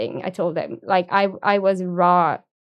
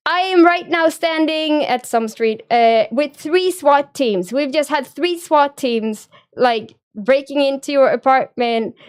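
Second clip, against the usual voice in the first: higher, raised urgent cop voice; retold yelling; 4 semitones higher, 4 dB louder than usual. Police chief yelling down the phone about swat teams, loud and urgent. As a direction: bark it like an alarmed officer on the scene. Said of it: "kind of yelled at me".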